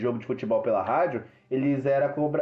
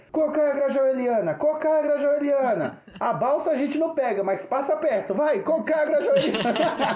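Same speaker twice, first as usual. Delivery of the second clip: very high, stretched street-hawker call; mock bus tout singing out the route; imitating cobrador's cry; 11 semitones higher than usual. (imitando cobrador chamando passageiro, bem agudo)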